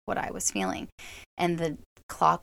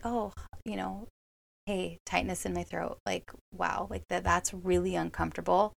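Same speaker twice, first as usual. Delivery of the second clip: soft, tender self-talk, quieter; loving parent voice; 4 dB quieter than usual. Retold or imitated. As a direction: soothe yourself like a parent soothing a child. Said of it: "like a loving parent to a child".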